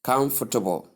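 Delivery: COMFORTABLE as KUMF-tuh-bul; first-syllable stress. Shown as a demonstration. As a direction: stress "comfortable" on an opening "kum", softening the rest. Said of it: "lay more emphasis".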